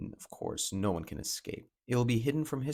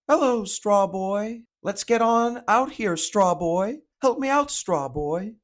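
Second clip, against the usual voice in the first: high, loud, drawn-out cartoon voice; slow, high-pitched character impression with a big lift; Ivankov; 12 semitones higher, 6 dB louder, slower than usual. Reviewer showing how the dub character talks, high exaggerated impression. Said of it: "Ivankov speaks like".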